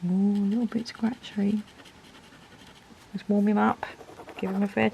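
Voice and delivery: breathy hush, voice off; whisper. Real, not acted. Reviewer testing a new pen on paper, whispered. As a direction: whisper it like a private aside.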